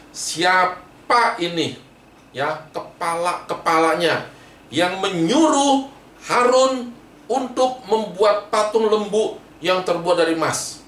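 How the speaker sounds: Moses hunting down the guilty leaders; stern questioning that bursts into a command; angry Moses. Acted. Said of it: "Musa marah sekali".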